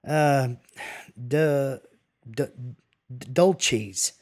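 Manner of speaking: stammered groping for a foreign word; halting attempt. A narrator's reading. Johnny attempts Spanish for Julio, halting. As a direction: stumble on the d, with long gaps, before the word. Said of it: "Johnny attempted".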